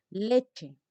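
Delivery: "Leche" with the first syllable stressed. Shown as a demonstration. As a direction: make LE stand out in "Leche". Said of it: "voy a hacer que esta sílaba se destaque".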